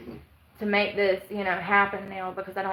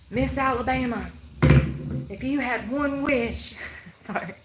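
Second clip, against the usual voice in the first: pageant host; 3 semitones higher than usual. Retold or imitated. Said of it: "They'll be like".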